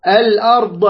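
"الأرض" ending in a bounced ض; cautionary demo of an echoed ض in "الأرض"; qalqalah on Dad. Shown as a demonstration. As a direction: release the last ض of "الأرض" with a little echo. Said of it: "هذه انتبه عليها".

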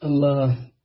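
word stretched through a yawn; yawning mid-word. Real, not acted. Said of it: "لكثرة التثاؤب،".

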